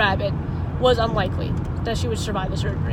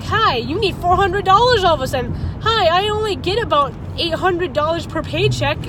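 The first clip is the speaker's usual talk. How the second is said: raised, heated complaint, higher and louder; frustrated outburst; 6 semitones higher, 5 dB louder than usual. Real, not acted. Venting to viewers about a vet bill, frustrated and loud. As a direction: vent the money frustration at full voice. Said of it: "This is just me showing my emotion".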